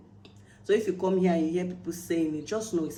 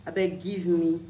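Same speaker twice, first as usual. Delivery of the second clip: Nigerian pidgin. Shown as a demonstration. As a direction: ask in easy pidgin. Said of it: "let me use the pidgin English".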